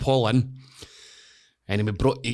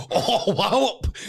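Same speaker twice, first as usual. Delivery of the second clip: mock slam; 11 semitones higher, much slower than usual. Fighter hitting him, retold.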